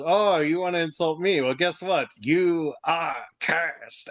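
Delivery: mock threat, drawn out at the end; lightly acted curse, ending very slowly; cursing threat. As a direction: stretch out the final words like a curse.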